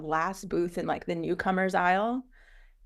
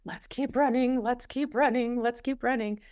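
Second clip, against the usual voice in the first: urging each other on; 6 semitones higher than usual. Retold or imitated. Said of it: "We're like".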